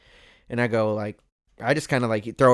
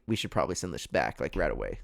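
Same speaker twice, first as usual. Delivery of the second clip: lower, soft, hushed advice; quiet caution; 8 semitones lower, 7 dB quieter than usual. Retold or imitated. Wife urging him to return the money, low and hushed. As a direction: murmur it like a careful conscience.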